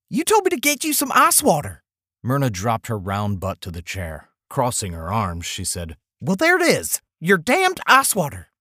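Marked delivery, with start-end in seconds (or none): 0.1-1.8 put-on much higher old woman's voice, offended; indignant wife. Wife retorts, female voice. 6.2-8.5 put-on high, louder, biting old woman's voice; sarcastic angry wife. Wife snaps back, arms crossed.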